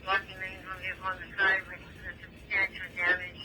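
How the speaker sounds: dispatcher over a two-way radio; police radio. Real, not acted.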